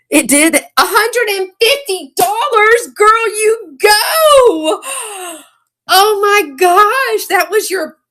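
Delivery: squealing high and slow with a laugh; real excitement. Real, not acted. Seller cheers friend LaDonna's hundred-and-fifty-dollar sale, squealing. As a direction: cheer her friend on, thrilled. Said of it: "I got excited".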